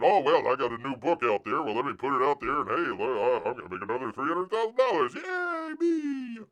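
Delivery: smug sing-song, soaring on Yay, me; hammed-up self-congratulation; mock smug creator. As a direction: sneer at a greedy creator. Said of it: "Don't treat people like an ATM".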